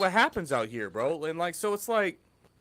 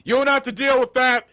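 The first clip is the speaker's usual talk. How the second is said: louder and higher, shouting across the bar; imitated drunk yell; 6 semitones higher, 7 dB louder than usual. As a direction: yell it at the guys in the club. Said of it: "he's literally screaming at other guys".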